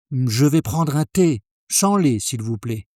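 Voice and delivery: fluent café order; full order in one go. Shown as a demonstration. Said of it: "try putting it all together in one go".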